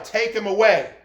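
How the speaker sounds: mild mock yell of an angry mob; retold crowd yell. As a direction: chant it like the crowd demanding death. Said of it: "All they did was yell".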